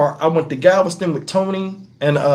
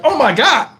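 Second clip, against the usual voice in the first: higher-pitched, concerned exclamation; acted concern; 6 semitones higher than usual. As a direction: react with retold alarm and concern. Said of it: "but I showed concern".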